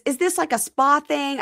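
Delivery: high, questioning voice; lightly voiced host; puzzled host. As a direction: ask it bewildered.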